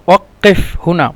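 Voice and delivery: "ওয়াক্কেফ" with a long double k-like qaf; doubled qaf. Shown as a demonstration. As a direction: hold the middle consonant of "ওয়াক্কেফ" before releasing it. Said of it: "দুইবার উচ্চারণ হবে".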